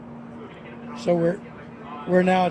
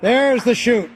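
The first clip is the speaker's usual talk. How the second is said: excited; 5 semitones higher, 4 dB louder than usual. Real, not acted. Parachute opens on live broadcast.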